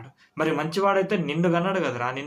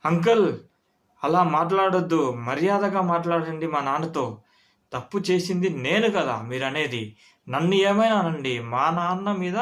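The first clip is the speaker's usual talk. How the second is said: son standing up, a little louder; retold loud defiance; 3 semitones higher than usual. Son defends his father to the uncle, firmly retold. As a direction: defend your father firmly, half-performed. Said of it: "అని వాడు గట్టిగా అన్నాడు".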